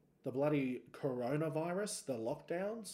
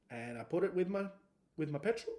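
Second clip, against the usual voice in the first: voice cracking; 2 semitones higher than usual. Real, not acted. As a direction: voice breaks mid-line. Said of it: "My voice just broke".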